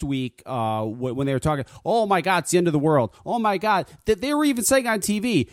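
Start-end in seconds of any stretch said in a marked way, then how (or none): 1.8-3.9 high, mock alarm over the snow; mock media panic. Mocking TV hype about the storm, mock panic. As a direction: ham up the news hype.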